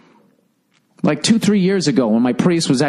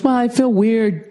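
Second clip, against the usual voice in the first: wife explaining she feels weird, lightly mimicked; imitating wife. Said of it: "She goes".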